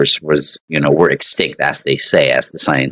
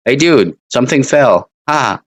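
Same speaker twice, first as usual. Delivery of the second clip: higher, amused mock friend; demo casual reaction; 7 semitones higher than usual. Shown as a demonstration. Teacher acting a friend reacting to a fall, light amused voice. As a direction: act out a mild chuckle at a fall. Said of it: "Like that".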